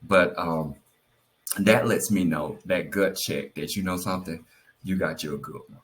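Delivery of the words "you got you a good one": touch of emotion, subdued; getting emotional. Real, not acted. Wife grateful for her good husband, trying not to get emotional. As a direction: hold the feeling back, voice sinking. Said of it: "I'm really getting emotional".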